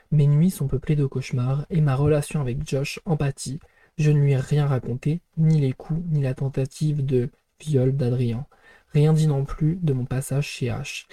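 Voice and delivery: measured, even novel narration; steady storytelling read from the book; book read-aloud. A narrator's reading. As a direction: read the page aloud as first-person narration. Reads a novel page aloud.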